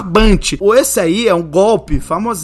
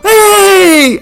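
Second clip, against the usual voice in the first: loud, high, drawn-out "hey!"; overfriendly greeting; 10 semitones higher, 8 dB louder than usual. Retold or imitated. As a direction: greet a stranger like a long-lost friend. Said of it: "um rapaz muito simpático, mas muito simpático mesmo, abrindo os braços falando". (cumprimento efusivo, alto e esticado)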